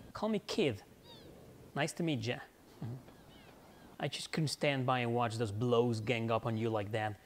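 lightly voiced British girl accent; a hint of a cheeky British girl. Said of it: "she's like a British accent".

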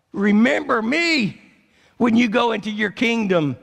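dying thief crying out to Jesus in a retold cry of agony; mock agonized cry. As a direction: beg him to remember you, straining. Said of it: "He's screaming with agony".

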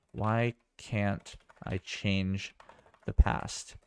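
drawn out, half whispered; slow it right down, nearly a whisper; slow dramatic line. Retold or imitated. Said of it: "The time traveler asks Vox".

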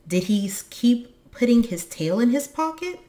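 eager, high, loud question; excited cry. A narrator's reading. Moomintroll checks whether it was his father, excited cry. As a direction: press the question eagerly, pitch lifting. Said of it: "cried Moomin Troll".

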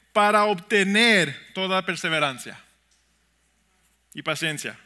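measured verse reading, long pause inside; slow scripture reading. Shown as a demonstration. Pastor showing what follows in the verse, slow deliberate reading. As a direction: read it deliberately, letting it land. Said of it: "lo leí más lentamente".

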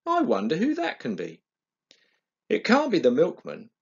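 a hint of a puzzled mother thinking it through; mummy's voice. Mummy wonders who rang.

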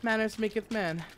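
light Kingsman-style British; British accent. Acted. Player quoting Kingsman to show the British accent, lightly British. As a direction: quote it in a mildly put-on British accent. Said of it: "watching the Kingsman".

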